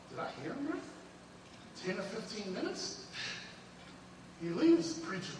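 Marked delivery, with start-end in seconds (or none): 0.1-3.1 high, disbelieving question; can't believe what she heard; high pitched mock disbelief; incredulous. Wife doubting preacher's short sermon.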